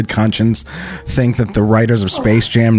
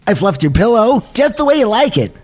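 high, eager Roger Rabbit voice; chirpy toon rabbit, way up high; cartoon rabbit voice; 7 semitones higher than usual.

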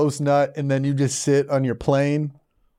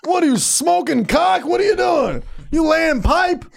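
laughing yell; 14 semitones higher, slower than usual. Real, not acted. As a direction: shout it while cracking up. Laughing teasing yells.

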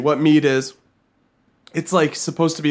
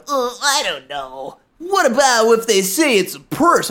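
unsure, hesitant mumble; hesitant vendor voice; 5 semitones higher than usual. Retold or imitated. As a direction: voice him as unsure and wary.

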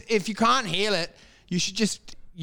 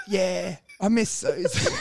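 laughing mock lament; slower than usual. Switching the focus mockingly.

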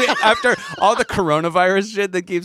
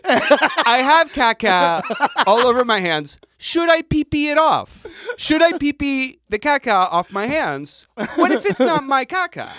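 put-on childish voice; 5 semitones higher than usual. Acting a babyish questioner.

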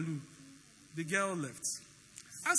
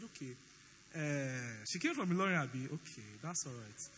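mock casual; 10 semitones lower, 7 dB quieter than usual. Pretended agreement, quoted.

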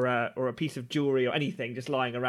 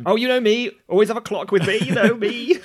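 high, cheeky bragging; smug character voice; 9 semitones higher, 7 dB louder than usual. Acted. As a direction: show off playfully. Koshi brags in character.

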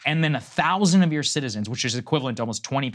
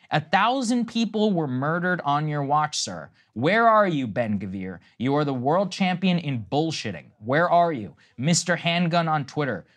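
retold angry shout at the prime minister, raised pitch and volume; 4 semitones higher than usual. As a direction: relay the man's outraged yell at the prime minister, half-voiced. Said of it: "this man is shouting, repeatedly shouting".

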